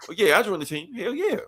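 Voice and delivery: put-on gleeful whoop of a kid who made the team; laughing excitement. Static celebrating joining the Titans, laughing and excited.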